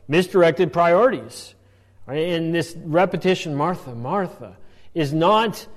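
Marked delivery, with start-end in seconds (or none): 3.5-4.6 softly spoken, low reproof; gentle chiding. Acted. Explaining how Jesus addressed Martha, gently chiding. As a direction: chide gently on the repeated name. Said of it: "He's gently chiding her".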